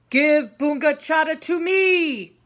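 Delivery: loud commanding demand; loud tiger command; stern order. Acted. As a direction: order it with full authority. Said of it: "the tiger ordered".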